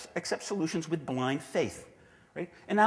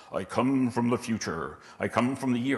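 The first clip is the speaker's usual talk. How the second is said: hammed-up time traveller to the 1988 project team; mock time traveller; 3 semitones lower than usual. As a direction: play the solemn visitor from the future. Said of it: "and you say".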